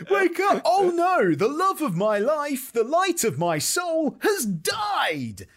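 high, loud, drawn-out lament; hammed-up tragic actor. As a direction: build to a slow, shouted mock-tragic wail. Actor mourning Juliet, hamming it up.

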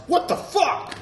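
high-pitched mock outburst; mock yell. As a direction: blurt it out high, as if startled by cops. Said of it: "you shouldn't yell out is".

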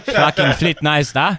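put-on Afrikaans accent. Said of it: "Afrikaans Donald Trump".

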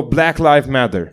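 slow, imitated Nepali English; Nepali accent. Comic retelling an open-mic act, Nepali accent. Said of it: "do a Nepali accent".

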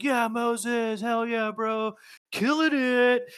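loud, high whoop for a teammate; excited cheering. Retold or imitated. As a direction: cheer him on, stretching the last words. Cheering athlete at finish line.

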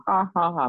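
spoken "ha, ha, ha" at the devil; mock laugh. Shown as a demonstration. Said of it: "You're laughing at him".

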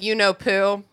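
deadpan audiobook narrator; dry, serious read of a silly name; deadpan imitation. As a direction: say YOU KNOW POO with a straight, even delivery. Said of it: "Having to hear him deadpan".

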